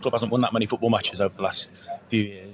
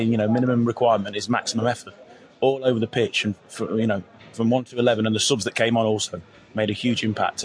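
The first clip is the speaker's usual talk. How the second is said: hoarse voice. Real, not acted. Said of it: "I've lost my voice a little bit".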